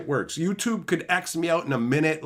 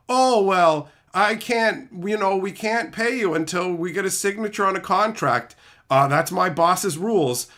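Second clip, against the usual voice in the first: mocking scammer; 5 semitones higher, 3 dB louder than usual.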